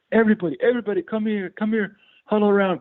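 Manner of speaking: very high accented imitation; Borat-like heavy accent. Bandmate calling friends to a farewell huddle, in a heavy accent. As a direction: gather everyone round in a thick Borat-style accent. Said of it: "he spoke, uh, basically like Borat".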